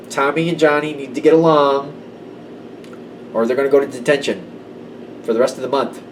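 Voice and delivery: a hint of a schoolteacher scolding kids; lightly voiced stern teacher. Teacher breaking up a schoolyard fight, mildly stern. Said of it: "like the teacher in that schoolyard".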